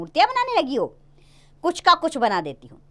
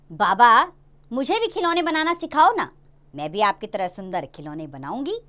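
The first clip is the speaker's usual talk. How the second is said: put-on girl pleading. Little daughter begging her father to teach her, lightly voiced. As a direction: coax it like a small daughter.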